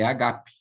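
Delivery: agape stressed on the middle syllable; agape with strong second a; original pronunciation. Shown as a demonstration. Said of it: "na verdade".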